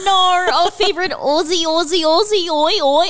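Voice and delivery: high, drawn-out mock fanfare; hammed-up announcement. Host revealing the special treat, hammed-up high announcement. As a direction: belt it out like a crowd chant. Grand reveal of episode's subject, chant.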